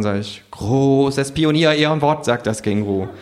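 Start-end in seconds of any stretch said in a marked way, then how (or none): 0.5-2.2 slow, lightly raised kangaroo vow; mock solemn kangaroo. Kangaroo promising not to break the phone, mock solemn. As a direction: swear it with fake solemnity.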